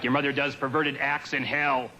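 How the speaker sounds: slightly slow mock demon voice; a hint of the demon. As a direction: lightly menace like the Exorcist demon. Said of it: "The demon says something like".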